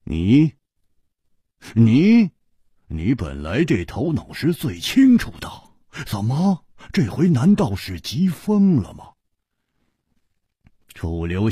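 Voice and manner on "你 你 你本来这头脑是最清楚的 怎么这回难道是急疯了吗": stammering then rising high; 大声质问; loud. Acted. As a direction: jab out the repeated you, then press. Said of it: "大声地说".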